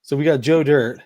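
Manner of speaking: deadpan, in an even everyday voice; straight-faced. Real, not acted. Host listing pardon candidates for the others, straight-faced. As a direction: say the wrong name with a straight face. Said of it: "like it was a straight face".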